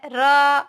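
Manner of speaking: र alone, its vowel held; isolated, drawn-out र for learners; sounded out. Shown as a demonstration. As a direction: stretch र out as a separate syllable. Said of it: "आ का उच्चारण हो रहा है".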